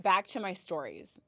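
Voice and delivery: normal talking voice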